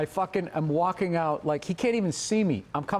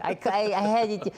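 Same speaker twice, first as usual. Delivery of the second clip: high-pitched imitation of friend's excuse; mock pleading excuse; 8 semitones higher than usual. Acts out friend's excuse after apology.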